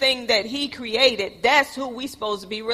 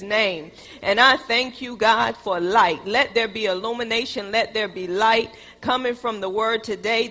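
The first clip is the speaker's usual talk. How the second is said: earnest spoken prayer to God. Real, not acted. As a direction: pray it out, fervent and steady. Opening prayer before sermon.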